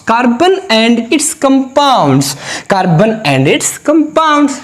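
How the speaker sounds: slow, spelled-out classroom recitation; slow demo reading. Shown as a demonstration. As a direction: read each word very slowly, spaced out. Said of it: "बच्चों, आपको ऐसे पढ़ना है".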